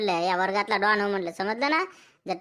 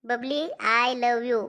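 drawn-out, very slow love confession; slowly confessing love to Babli; slow proposal; much slower than usual. Acted. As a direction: stretch every word like a nervous lover. Shy schoolboy proposes to girl.

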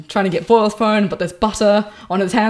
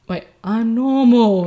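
mock character line; 4 semitones higher, 4 dB louder, slower than usual. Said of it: "the twist is".

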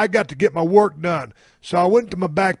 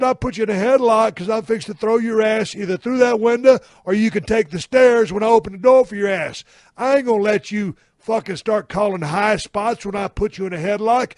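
indignant rant; 4 semitones higher than usual. Acted. Indignant comeback to the horsefly.

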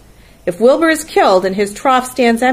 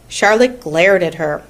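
ordinary delivery, nothing marked

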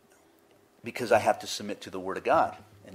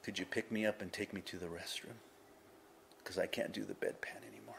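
very soft, near-whispered plea; weak sick man; 2 semitones lower, 16 dB quieter, faster than usual. Retold or imitated. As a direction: ask faintly, as if bedridden and drained. Voicing a bedridden, weakened man.

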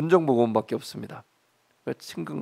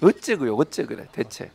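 exasperated Jeolla-style questioning, falling away; Jeolla dialect; 2 semitones lower than usual. Shown as a demonstration. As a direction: Jeolla lilt on a weary complaint. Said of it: "이건 전라도 말로".

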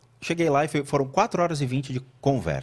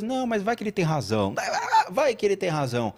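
mock softened tone; 6 semitones higher than usual. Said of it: "o cara mudava a entonação".

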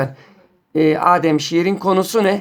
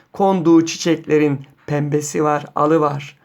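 poem recitation. Acted. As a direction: read it line by line as verse. Reads a second poem aloud.

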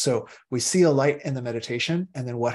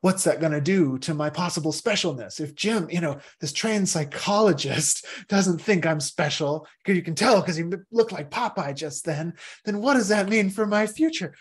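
mock anxious ego; 5 semitones higher than usual. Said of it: "might say".

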